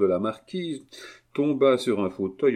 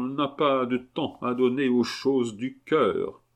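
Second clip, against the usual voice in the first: stately, raised-pitch reproach; cold dignity; 5 semitones higher than usual. Acted. Marquise rebuking her indifferent nephew, coldly dignified. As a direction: deliver a formal rebuke. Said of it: "avec une froide dignité".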